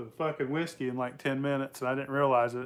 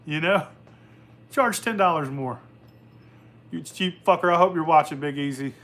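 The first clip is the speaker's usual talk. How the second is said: louder, raised rant at a cheap friend; retold scolding; 2 semitones higher, 4 dB louder than usual. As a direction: lay into him, half joking. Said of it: "And I'm like".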